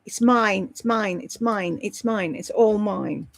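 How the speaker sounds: cling to it, fading with each repeat; possessive insisting. Real, not acted. Telling viewers she will never give it away, playful possessive fading. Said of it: "People keep saying, "Oh, Lisa gets rid of it".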